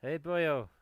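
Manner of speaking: a rough stab at a Welsh lilt; attempted Welsh accent. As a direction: imitate a Welsh neighbour's greeting, loosely. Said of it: "I can't do a Welsh accent".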